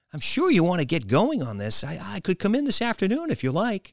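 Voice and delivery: high, loud, eager reply; elated. A narrator's reading. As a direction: answer through an elated smile. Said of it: "broke into an elated smile".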